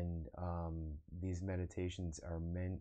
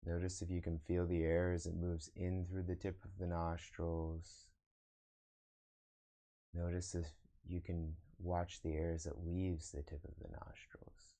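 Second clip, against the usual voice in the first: guided meditation. Acted. Meditation teacher guiding online viewers to observe the breath, guided meditation. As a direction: lead them into breath awareness, unhurried. Leads a meditation after chatting.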